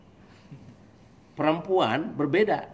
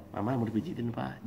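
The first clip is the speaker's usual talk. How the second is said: soft, lowered offer; gentle caring wife; 3 semitones lower, 8 dB quieter than usual. Acted. Wife offering her husband a massage, gently. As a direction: soothe him quietly.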